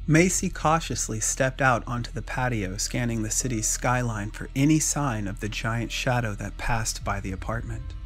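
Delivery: ordinary delivery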